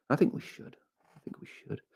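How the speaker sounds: soft whisper to himself. Real, not acted. Musing to his viewers about reaching a million, in a whisper. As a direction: whisper it like a secret thought.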